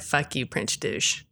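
low, slow, breathy whisper of a curse; muttered curse. Retold or imitated. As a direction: spit it under your breath. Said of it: "Jamie said".

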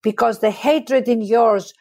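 impassioned, unbroken declamation building in intensity; dramatic monologue recital. Acted. Joan of Arc facing her accusers, dramatic monologue recital. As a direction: recite it as a condemned heroine defying her judges. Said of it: "I start to recite this monologue".

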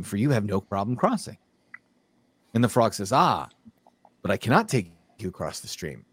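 animated fable narration with lightly acted dialogue; storyteller lightly playing both animals; storytelling. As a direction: tell an old fable, lilting through each exchange.

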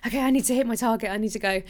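mock panic to hit the target; panicked scramble. Herself at month end, scrambling in mock panic. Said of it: "the last couple of days I'd be like".

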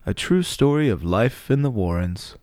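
measured, theatrical presenter intro with deliberate pauses; documentary show host. Acted. Host Gene Smitherbottom welcomes viewers to the episode, polished presenter delivery. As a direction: introduce the programme grandly, letting phrase endings fall.

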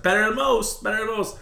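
high, hushed golf announcer voice; golf clip impression. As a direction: imitate a golf commentator's call. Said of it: "that golf clip where it's like".

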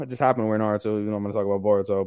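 ordinary delivery

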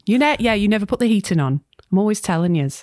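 put-on light Scouse accent as Sam, teasing her mum; gentle Liverpool nagging, accent held lightly. Sam chides her mum about the heating, light Scouse. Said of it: "I've forced you to do a Scouse accent".

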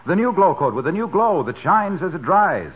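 bright sponsor-read sales patter; ad pitch. Acted. The speaker launching into the glow coat commercial, ad read. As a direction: sell the floor wax like a radio commercial.

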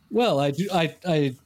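lightly mocking posh teen, halting start then a quick rush; posh-adult teenager. Teen drama character asking someone out, lightly mock-posh. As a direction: give a hint of an over-formal teen romantic. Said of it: "they talked like really posh adults".

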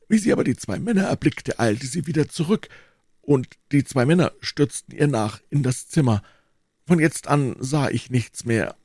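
lightly voiced old man, pitched a little up; old eyewitness. Old man telling D'Artagnan of the abduction, lightly voiced storyteller. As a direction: recount it as a witness, with lively rises.

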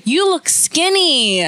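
high, slow, fake-sweet praise; fake compliment. Mom on the phone to her daughter, a fake high compliment. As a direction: say it like you don't mean it at all. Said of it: "very not, like, fake way".

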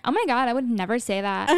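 put-on a light touch of Valley girl, half-laughing. Describing her accent slips, a mild Valley girl voice. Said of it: "start talking like a Valley girl".

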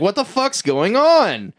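high and slow, baffled; confused outburst. Retold or imitated. Crew confused as weird things keep happening, high and slow. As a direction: drag it out in high disbelief.

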